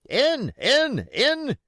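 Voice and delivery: loud, high frantic shouts; shouting. Acted. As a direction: drive them in with rage. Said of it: "he shouted".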